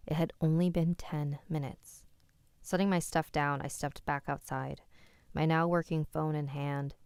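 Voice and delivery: measured, even read-aloud; story narration. A narrator's reading. Reading a listener's eerie story to the stream, measured narration. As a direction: narrate a true creepy story.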